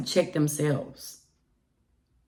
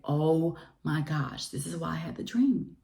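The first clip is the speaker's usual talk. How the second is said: hushed realization; 5 dB quieter than usual. Retold or imitated. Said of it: "I was like".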